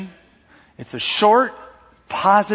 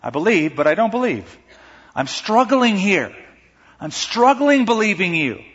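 honest struggle; 5 semitones higher than usual. Retold or imitated. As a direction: confess the doubt. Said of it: "the honest pouring forth of my heart".

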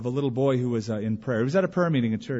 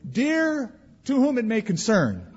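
mock formal prayer; 7 semitones higher than usual.

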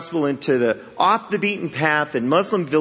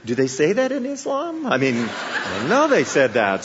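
laughing disbelief. Retold or imitated. Preacher recalls overhearing Christians and laughs in disbelief. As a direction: laugh at the surprise in your own head. Startled thought in a cafe.

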